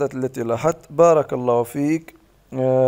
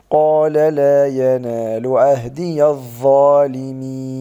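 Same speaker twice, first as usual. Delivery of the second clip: slow recited قال لا ينال; slow Quran recitation model; recitation demo; much slower than usual. Shown as a demonstration. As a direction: chant it slowly as a model. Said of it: "ثم تقولي".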